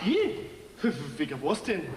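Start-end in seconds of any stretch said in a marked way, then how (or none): 0.0-0.5 startled. Acted. Startled by police question.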